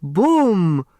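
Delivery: loud delighted boom; delighted cry. Acted. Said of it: "cried Madam Hu".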